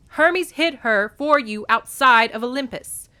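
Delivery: loud, high accusation; crying out. A narrator's reading. Distraught mother accuses Hermes of hiding her, crying out. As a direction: cry out the charge. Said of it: "Demeter cried".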